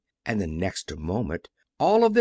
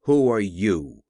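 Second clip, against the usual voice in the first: shouted; 5 semitones lower, 4 dB louder than usual. A narrator's reading. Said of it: "cried out".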